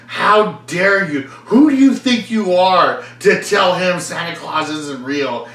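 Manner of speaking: high, loud slow scolding; angry adult scolding. Retold or imitated. Adult scolding a kid over Santa, mock angry. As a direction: scold a child. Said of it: "some adult got in my face and was like".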